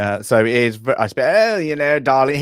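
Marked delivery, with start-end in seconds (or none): 1.3-2.4 lightly mocked posh officer accent, higher. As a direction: put on a hint of upper-class officer. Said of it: "it's a bit later how he's talking".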